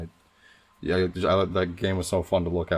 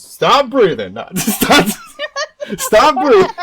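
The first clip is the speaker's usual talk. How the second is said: high, loud yelled order; shouted command; 13 dB louder, much slower than usual. Retold or imitated. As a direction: yell it like a bratty kid. Imitating a sibling yelling.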